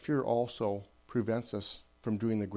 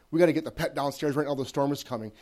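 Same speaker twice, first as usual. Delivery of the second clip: urgent; 3 semitones higher, 3 dB louder than usual. Retold or imitated. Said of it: "you tell your pet".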